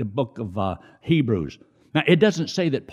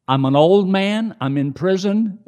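higher, louder pleading apostle; voicing Paul; 9 semitones higher, 7 dB louder than usual. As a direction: plead as old Paul from prison. Voicing Paul's plea.

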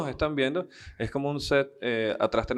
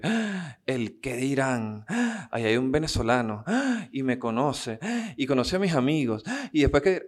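mock panic. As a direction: squeal each Ah like a jumpy, paranoid stoner. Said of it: "le entró ese prejuicio de".

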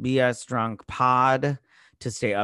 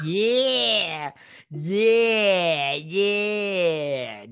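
rock-out yell; 5 semitones higher, 5 dB louder, much slower than usual. Acted. Hammed-up rock-out yells.

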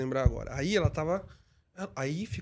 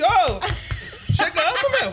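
high, louder cheerful call with a laugh; wake-up call; 10 semitones higher, 4 dB louder, much slower than usual. Shown as a demonstration. Driver waking a dozing passenger at the door, cheerful call. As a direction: call out to rouse a sleeping passenger. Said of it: "como você acorda?".

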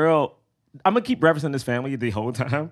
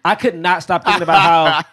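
laughing; 4 semitones higher, 8 dB louder than usual. Real, not acted.

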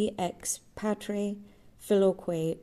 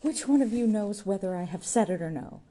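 disgusted tirade; 6 semitones higher, 3 dB louder than usual. A narrator's reading. Jude rails in disgust.

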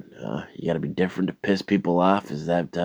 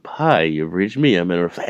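loud, raised answering-machine voice; mock voicemail greeting; 3 semitones higher, 6 dB louder than usual. Caller mimics friend's voicemail message, mock voicemail greeting. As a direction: parody an outgoing message.

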